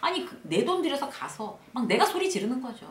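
ordinary delivery

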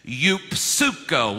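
"Eupsuko" stretched and loud, yoop-SOO-koh; slow teaching pronunciation. Shown as a demonstration. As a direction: lead a group through "Eupsuko" slowly, P and S sounded. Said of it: "Now say it with me".

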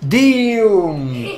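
very slow stretched dayum; drawn-out dayum. Real, not acted. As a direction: drag the word out in amazement. Gaming exclamation drawn out.

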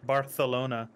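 Barcelona with the c said as th; th pronunciation. Shown as a demonstration. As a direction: say Barcelona the Spanish way, c as th. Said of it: "pronounce it with a T H".

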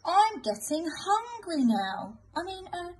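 slow, greedy wolf catching himself; hungry wolf slip. Acted. Wolf gives away his hunger to the creature, then backpedals.

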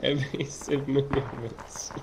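slow, drawn-out mock announcement; mock dramatic. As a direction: drag it out like a movie hero. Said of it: "look at my tacticalness".

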